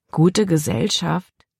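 slow, disbelieving „Gute Gesellschaft?“; doubtful echo. A narrator's reading. Libby doubting her father's promise, slow and disbelieving. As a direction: repeat his words back, unconvinced. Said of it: "Libby missfiel allein der Gedanke".

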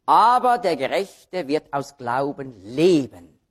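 slow verse with "leben" set apart at the end; slow down and land on "leben"; stress on leben. Shown as a demonstration. Preacher quoting the verse for Hebrews, stress on "leben". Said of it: "Da liegt also die Betonung auf dem Leben".

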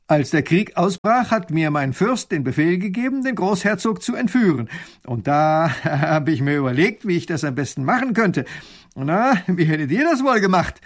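a hint of a smug officer; proud lieutenant. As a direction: boast about your clever plan. Lieutenant explains his plan.

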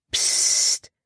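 unvoiced warning hush; a sharp whispered psst. A narrator's reading. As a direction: shush her quickly. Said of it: "warnte Caleb".

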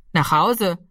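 ruhiges Echo in normaler Stimmlage; nachfragender Polizist. A narrator's reading. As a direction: als Polizist nüchtern nachfragen. Polizist wiederholt Ramis Antwort. (sachlich wiederholte Rückfrage)

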